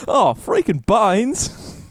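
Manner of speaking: high, very slow, drawn-out Aussie; exaggerated Australian accent; mock Australian. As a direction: stretch every word in a caricature Aussie. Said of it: "I was repeating to my girlfriend".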